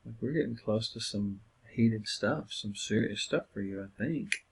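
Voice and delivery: soft, calm counsellor line; gently name the tension with a smile; a hint of soothing counsellor; smiling and calm. Shown as a demonstration. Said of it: "stop and smile and say".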